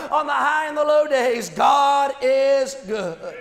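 rhythmic, emphatic preaching refrain; preaching cadence. Acted. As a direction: drive home each line like a sermon.

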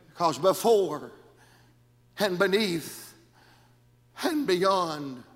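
hushed preaching. Acted. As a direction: bring it way down. Hushed drop after the climax.

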